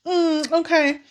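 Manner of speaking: high, wailing fake crying; hammed-up weeping mother; quick fake grief that stops short; mock sobbing mom. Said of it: "the mom cries".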